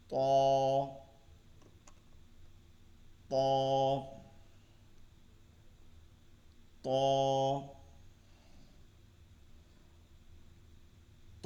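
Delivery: "ত" said thick like Arabic ط, tongue at the front teeth roots; heavy Arabic ta. Shown as a demonstration. Teacher drilling the heavy letter for students. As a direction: repeat "ত" heavy and firm, one at a time. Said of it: "উচ্চারণটা মোটা হবে".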